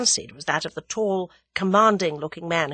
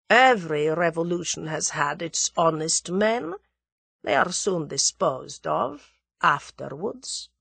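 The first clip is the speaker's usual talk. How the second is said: sinister note. Acted. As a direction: let the last words turn cold and slow. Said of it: "There was a sinister note in his voice".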